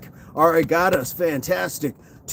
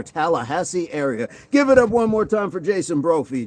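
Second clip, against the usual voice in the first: mock open-mic host, pitched up on the name; comedy club emcee. Host sends off a joking viewer, mock emcee patter. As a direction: announce him like a hammy club MC.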